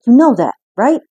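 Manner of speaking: put-on a fed-up parent pleading with a stubborn child; protective parent. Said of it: "sit their stubborn child down and go".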